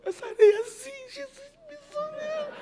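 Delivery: high, tearful mock cry; imitating tearful pilgrims. Pastor mimicking emotional pilgrims, tearful and high. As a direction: act out pilgrims weeping over the sand. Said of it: "Aí o pessoal".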